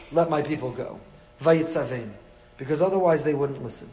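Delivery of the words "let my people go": lower, gentler urging to his own people; encouraging the people. Retold or imitated. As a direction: coax them to believe they can leave. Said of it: "he had to say to the people".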